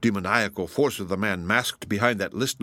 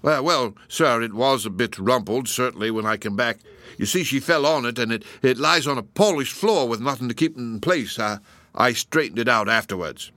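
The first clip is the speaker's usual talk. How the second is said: nervous constable; 2 semitones higher than usual. Acted. Constable stammering excuses.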